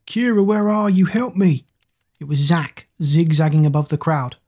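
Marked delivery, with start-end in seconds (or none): 0.1-1.7 high, small desperate call; little voice crying out. A narrator's reading. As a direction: call for help in a tiny high voice. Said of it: "a little voice cried out".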